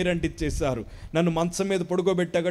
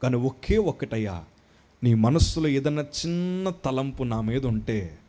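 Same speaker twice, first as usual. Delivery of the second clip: hushed humble prayer; 6 semitones lower, 5 dB quieter than usual. Retold or imitated. Retold humble prayer near death.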